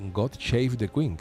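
"God Shave the Queen" with "Shave" said as shave, slowly; mispronounced anthem title. Retold or imitated. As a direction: say "Shave" instead of save, drawn out. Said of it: "alegaba mal la pronunciación".

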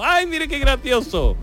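mock Andalusian teasing. Locals laughing at the angry foreigner, slow sing-song. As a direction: coo it as if charmed. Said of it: "Y al revés".

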